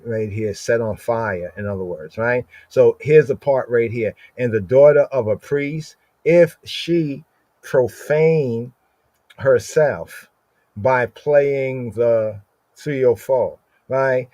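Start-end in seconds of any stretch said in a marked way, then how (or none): 4.4-13.6 slow scripture reading. Shown as a demonstration. Reads English verse aloud.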